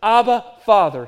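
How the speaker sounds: Abba and Father called out loud, then dropping; fervent loud call of Abba Father; loud cry to God. Shown as a demonstration. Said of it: "This loud crying out".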